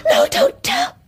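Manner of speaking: frantic begging. Acted. Guilty girl begging the old woman to keep her secret. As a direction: beg her, terrified of being exposed. Ghost begging not to tell.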